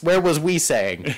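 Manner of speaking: slow, dim-witted repeat; talking stupid. Pretend. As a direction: say it dumb and slow. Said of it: "I have to talk stupid".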